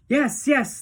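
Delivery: high, quick eager agreement; eager children. A narrator's reading. Children agree with Wonka, eager. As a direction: promise keenly. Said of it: "the children cried".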